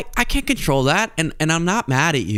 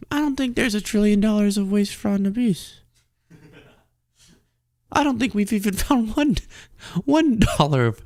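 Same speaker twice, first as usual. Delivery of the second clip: meek voice; 3 semitones higher than usual. Acted. Meek guy reports findings.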